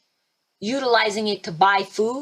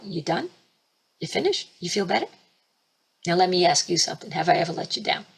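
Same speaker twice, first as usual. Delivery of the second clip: gentle voice of Yeshua; 3 semitones lower, faster than usual. Retold or imitated. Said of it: "All he ever sits to me is go".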